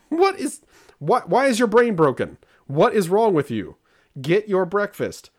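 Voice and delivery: put-on high, loud parent telling off a kid; hammed-up exasperated dad; exasperated scolding. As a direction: scold in mock disbelief, hitting each question hard. Exasperated parent scolding daughter, retold.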